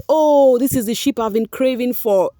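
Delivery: excited fan squeal. Retold or imitated. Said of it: "They will say".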